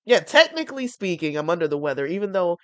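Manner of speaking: stuffy congested voice; talking through a blocked nose. Real, not acted. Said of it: "right now I'm a little congested".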